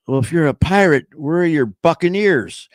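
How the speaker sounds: high, loud joke setup question; man quizzing a child. Acted. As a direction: play the puzzled grown-up, big and high. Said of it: "He goes".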